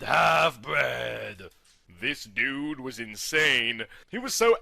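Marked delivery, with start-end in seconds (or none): 0.0-1.5 final "half-bred" yelled out, lower, falling; hammed-up villain yell; shouted insult. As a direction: spit the last one out as a shout. Last of the chanted insult.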